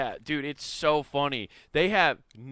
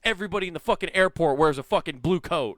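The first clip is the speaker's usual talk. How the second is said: loud, raised exasperated complaint; exasperated retort; 5 semitones higher, 4 dB louder than usual. Retold or imitated. Retelling to a friend how he snapped at airport staff, loud and exasperated. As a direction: let the annoyance burst out, louder.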